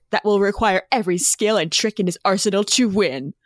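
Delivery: dramatic blurb reading voice; overly dramatic reading. Shown as a demonstration. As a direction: read it like a movie trailer. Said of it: "in an overly dramatic voice".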